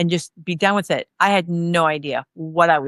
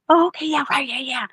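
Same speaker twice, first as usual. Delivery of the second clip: pretending to understand; 6 semitones higher than usual. Student bluffing through algebra explanation, mock-agreeable. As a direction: bluff along as if it makes sense.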